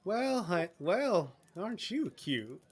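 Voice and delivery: put-on slipping into a Southern accent. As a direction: coo like a southern hostess. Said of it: "Why am I going southern?".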